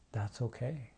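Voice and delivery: softly reassuring, a gentle hush; loving accepting voice. Retold or imitated. Friend reassuring her panicking companion, soft and accepting. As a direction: soothe a panicked friend kindly. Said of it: "with this loving, accepting voice".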